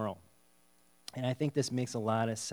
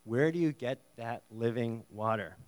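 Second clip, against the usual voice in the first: gracious. Shown as a demonstration. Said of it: "So she's very gracious".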